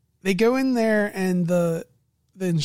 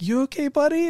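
caring question; 9 semitones higher than usual. Retold or imitated. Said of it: "he's like".

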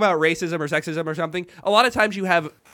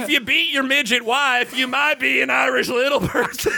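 higher, hammed-up Southern stand-up voice; Southern accent; 4 semitones higher than usual. Comic riffing a joke for his co-hosts, Southern accent. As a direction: set up and land the joke in mock Southern. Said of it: "that was a Southern accent".

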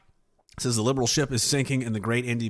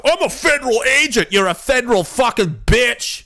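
mock a whiny federal agent; bitchy tantrum; 6 semitones higher, 4 dB louder than usual. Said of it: "the biggest bitch fest".

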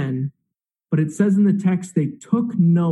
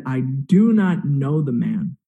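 slow, emphatic retold denial, understated anger; losing his cool; 3 semitones lower, slower than usual. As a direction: swear it word by word, with restrained heat. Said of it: "Peter just loses his cool completely".

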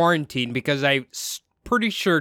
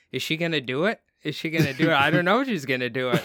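a lightly voiced couch wondering; whisper-like suspense from the couch; couch talking; much faster than usual. Husband's sketch, butt and couch talk, mild suspense. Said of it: "his butt and the couch are talking".

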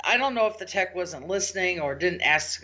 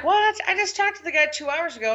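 shocked what; 11 semitones higher, 3 dB louder than usual. Retold or imitated. Tech reports surprising client email.

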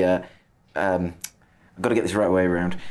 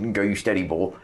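bad Norfolk accent. Interviewer mocking the steady Norfolk mindset in a bad Norfolk accent. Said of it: "That was a very bad Norfolk accent".

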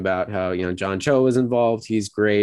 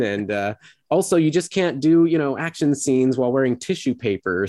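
higher, mock-reasonable explanation; retold sarcasm; 4 semitones higher than usual. Host retells actress's reply about the costume, light sarcasm. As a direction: imitate a tongue-in-cheek excuse to critics. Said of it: "just dripping with sarcasm".

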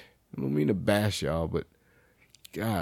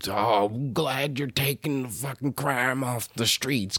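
mock newsletter reader; 4 semitones higher, slower than usual. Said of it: "my area's fucking newsletter".

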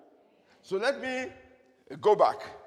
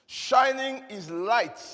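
slow, drawn-out emphasis; over enunciating; 3 semitones higher, 4 dB louder, slower than usual. Shown as a demonstration. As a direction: stretch each word. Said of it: "Let me say it again".

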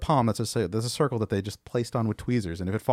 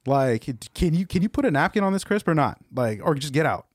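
exasperated boss chewing out a server, voice pitched up; retold angry telling-off; 3 semitones higher than usual. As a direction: snap at a clumsy underling, not fully shouted. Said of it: "they will yell at you".

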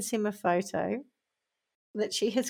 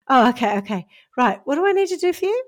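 mock eager rush; 2 semitones higher, 4 dB louder, faster than usual. Victim eagerly asking the scammer what to do, fast. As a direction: rush it out keen to help.

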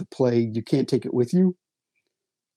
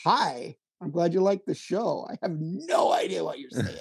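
higher, lightly done Russian accent; 5 semitones higher than usual. Shown as a demonstration. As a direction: greet fans in a Russian accent. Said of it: "I could do the Russian accent".

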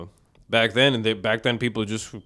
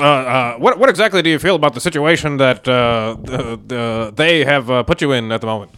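ringside interviewer; 8 dB louder than usual. Acted. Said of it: "All right, J C Rivas".

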